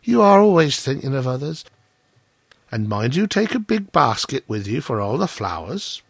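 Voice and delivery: lightly voiced fond wife; a touch of gushing, then practical; admiring miller's wife. Wife sending the miller off with a basket, admiring.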